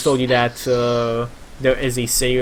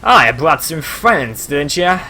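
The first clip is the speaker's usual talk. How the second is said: lightly voiced sailor, a bit louder; voiced sailor sizing up newcomers; gruff sailor character; 4 dB louder than usual. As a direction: play the sailor greeting visitors loudly.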